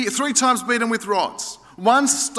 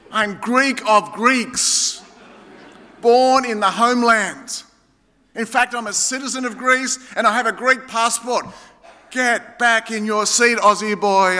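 proud comeback, hammering each phrase; playfully combative put-down; mock attack. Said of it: "I go on the attack like Paul".

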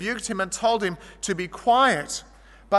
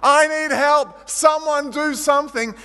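higher and louder, slow pleading; desperate cry for help; 7 semitones higher, 5 dB louder, slower than usual. Retold or imitated. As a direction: beg someone to act now. Trapped girl crying for help.

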